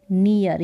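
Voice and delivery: "नियर" with an ee sound; pronunciation demo. Shown as a demonstration. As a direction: model "नियर" as nee-yer. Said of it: "ई करके इसका sound". (नियर, ई ध्वनि के साथ)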